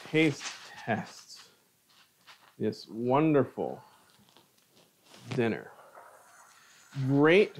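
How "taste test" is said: hushed whisper of taste test. Shown as a demonstration. Whispering the taste test to the viewers. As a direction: breathe the words like a secret. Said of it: "all that's left now is the taste test".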